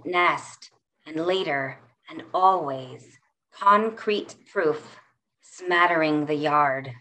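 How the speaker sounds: measured, lyrical poem recitation; poetry reading. Acted. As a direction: read it like a performed poem. Reads her poem aloud.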